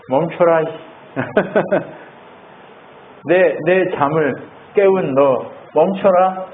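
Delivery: slow, grumpy just-woken scolding; drowsy rebuke. Acted. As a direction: scold the wind for waking you, slowly. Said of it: "세게 하지도 않아". (잠 깬 예수님이 바람에게 느리게 투덜대듯)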